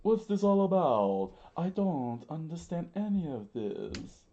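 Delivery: high, loud bewildered outburst; theatrical high-voiced holler; panicked scream. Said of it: "Mister Three screamed".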